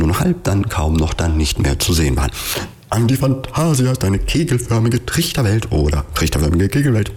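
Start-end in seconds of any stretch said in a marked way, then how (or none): 2.9-7.1 raised-pitch call, no real shout; calling after. A narrator's reading. Charlatan shouts after the departing Antifantasia, a restrained higher call. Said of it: "rief der Scharlatan hinterher".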